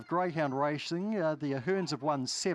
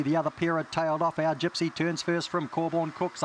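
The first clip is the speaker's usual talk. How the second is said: fast live race commentary; race call; 4 dB louder than usual. Acted. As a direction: call the race at full pace.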